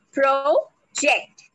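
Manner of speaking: "project" split as PRO, JECT; broken into syllables. Shown as a demonstration. Trainer breaks the word for learners, "project" in two beats. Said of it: "break this into two syllables".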